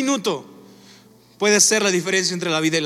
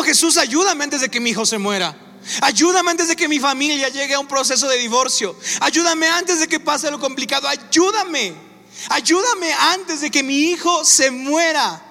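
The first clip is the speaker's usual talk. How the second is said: súplica desesperada; 5 semitones higher than usual. Retold or imitated. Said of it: "No es como".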